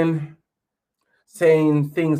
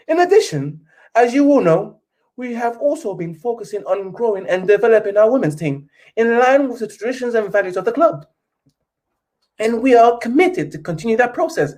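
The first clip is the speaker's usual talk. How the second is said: mock-posh British reading, a touch higher; posh British letter voice; 5 semitones higher than usual. YouTuber reading the Glazer statement to fans in mock-posh British. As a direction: read it like a love letter, lightly posh. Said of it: "Back to reading the letter".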